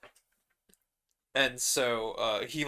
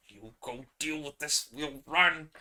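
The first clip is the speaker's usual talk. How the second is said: panicky bard; 4 semitones higher than usual. Acted. Marin shoving Viking forward.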